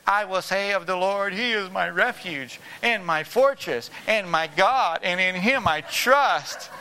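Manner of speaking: slow, solemn church recital, lightly put on; mock-pious Sunday voice; reciting like a show of piety in church; churchy pious voice. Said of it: "put on a little spiritual Christian hat in church".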